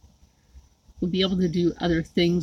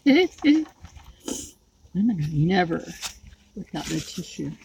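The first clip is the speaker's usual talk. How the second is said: laughing. Real, not acted. Repeats joke while laughing.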